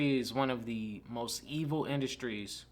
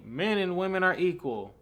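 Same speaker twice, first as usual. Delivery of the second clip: lightly imitated feminist, higher pitch; mock feminist slogan; 6 semitones higher, 3 dB louder than usual. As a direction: proclaim it higher, as a mocked activist. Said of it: "liberal white women in the sixties".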